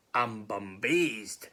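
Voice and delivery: very slow, stretched-out bewilderment; baffled gruffalo. Acted. Gruffalo amazed snake fled, slow bewilderment. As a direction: drag it out, dumbfounded.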